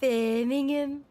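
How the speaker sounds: slow, drawn-out Brummie vowels on Birmingham; Brummie accent. Shown as a demonstration. Friend naming the city in a slow Brummie accent. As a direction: stretch Birmingham out Brummie style. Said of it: "that's literally fucking Brummie".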